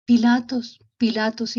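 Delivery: llamar con cariño imitado, con algo más de volumen; llamado cariñoso. Retold or imitated. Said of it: "lo llama con mucho cariño". (llamado con mucho cariño)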